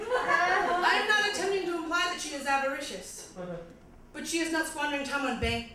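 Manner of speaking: slightly bad British recital; quasi British accent. Comic recites a rap song to audience, slightly bad British accent. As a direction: read it as poetry in mock-British English. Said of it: "slightly bad British accent".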